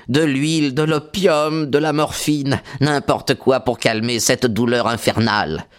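voix plus aiguë, suppliante et tendue; cri de douleur. A narrator's reading. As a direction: crier sa douleur, la voix montée. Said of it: "cria-t-il". (blessé qui supplie, cri aigu de douleur)

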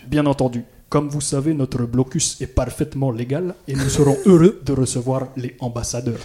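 stilted film dubbing line, played out; acted film viceroy. Host acting out a film quote for quiz players, performed viceroy. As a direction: play it for real, each phrase set apart. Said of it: "le refaire en le jouant vraiment".

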